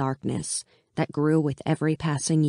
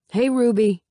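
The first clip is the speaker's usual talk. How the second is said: higher, louder friendly call; 7 semitones higher, 5 dB louder than usual.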